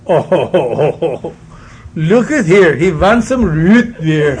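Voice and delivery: put-on indulgent old woman, slow and laughing; grandma dotes on her grandson, chuckling; doting grandma. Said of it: "My grandma say".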